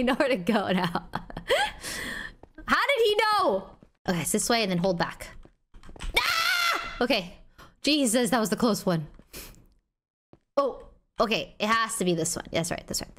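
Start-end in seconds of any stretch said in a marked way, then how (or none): 6.2-7.0 startled shriek. Real, not acted. Near miss in game.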